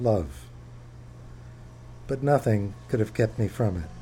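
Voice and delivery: measured book reading voice; reading aloud. Acted. Author reading chapter one to an audience, measured. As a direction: read it like opening a memoir.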